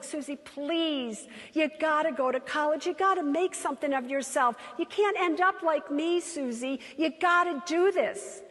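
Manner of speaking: mother begging her daughter; earnest motherly plea, rising; pleading mother. Retold or imitated. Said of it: "my mother was like".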